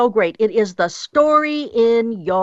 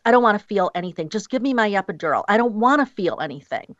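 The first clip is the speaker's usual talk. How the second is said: rushed mock pleading; faster than usual. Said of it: "And some women will say".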